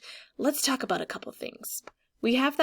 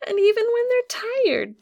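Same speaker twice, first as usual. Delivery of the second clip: emphatic; 12 semitones higher, 7 dB louder than usual. Acted. Dramatic point in the story.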